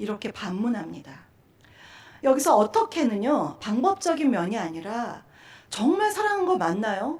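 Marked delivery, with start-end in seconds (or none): 5.7-7.2 high-pitched, doubting, mocking tone. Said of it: "의구심을 갖는 조롱조의 말".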